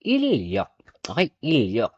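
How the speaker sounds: "ilyok" with a doubled L, "il-lyok"; double L reading. Shown as a demonstration. Teacher shows learners how "in ryok" is read as "ilyok". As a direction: say "ilyok" with the L held across both syllables. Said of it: "ang magiging pronunciation niya ay double L".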